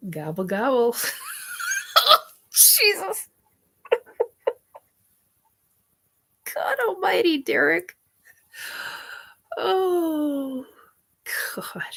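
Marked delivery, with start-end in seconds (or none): 2.5-11.8 high laughing God almighty; giggling at a friend's joke; laughing exclaim. Real, not acted. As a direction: laugh it out in disbelief.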